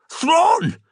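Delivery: very high alarmed squeak; big man's voice cracking up in fright. Acted. Revere sees Xander dragged off the wall, squeaking in alarm. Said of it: "the big man's voice high in alarm".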